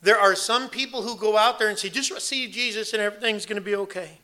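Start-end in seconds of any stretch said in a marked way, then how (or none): 1.9-4.2 put-on southern accent, slightly higher; mock southern preacher accent. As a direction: mimic a southern evangelist's accent. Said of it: "they always have a southern accent".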